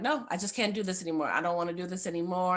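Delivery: quick, exasperated refusal, fast; a touch of a fed-up tantrum, fast; retold tantrum. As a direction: rush it out like you're fed up. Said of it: "I'm having this temper tantrum".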